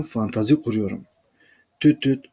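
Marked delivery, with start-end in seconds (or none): 1.8-2.2 imitated phone ring, a touch louder; mock phone beep. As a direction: chirp it like a ringing phone. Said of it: "macht plötzlich das Telefon".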